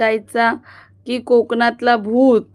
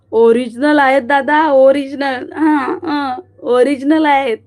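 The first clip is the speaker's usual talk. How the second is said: insistent; 3 semitones higher, 3 dB louder than usual. Real, not acted. Insisting her hair is real.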